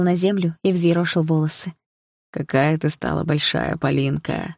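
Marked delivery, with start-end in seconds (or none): 2.3-4.6 smiling fondly. Acted. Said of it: "сказал папа, улыбаясь".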